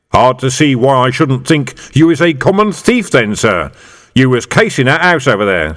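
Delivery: a sergeant hamming up the thick copper. Acted. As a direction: play the dim, immovable copper. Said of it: "happy in the role of big, thick, but horribly unshakable copper".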